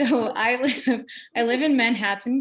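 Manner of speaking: "Manhattan" with the T clearly pronounced, not swallowed; Manhattan with crisp T. Shown as a demonstration. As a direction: say "Manhattan" with a sharp T in the middle. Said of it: "See how I put the T back in there?".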